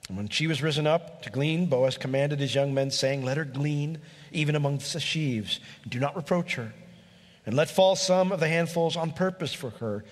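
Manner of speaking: measured reading of the Bible passage; scripture reading. Acted. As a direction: read the verses out with weight. Reads scripture aloud.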